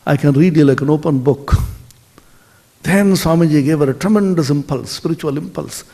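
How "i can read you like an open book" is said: smiling reply. Acted. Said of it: "Swamiji smiled and said".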